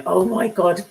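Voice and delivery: breaking into real, high laughter; laughing. Real, not acted. Streamer realising she was being bantered, bursting out laughing. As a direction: crack up as you say it.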